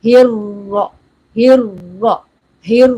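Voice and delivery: "ہر" with a held r opening into heavy ra; Ha joined to Ra. Shown as a demonstration. Teacher drills the right sound, heavy "ہر". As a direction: repeat "ہر" firmly, thick r, pausing between. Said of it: "یہ آواز ہے".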